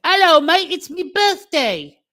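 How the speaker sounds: high, loud mock Cockney cleaning lady; chatty grumbling charwoman. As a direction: put on a cheeky Cockney charwoman voice. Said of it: "You sound like a, a cleaning lady".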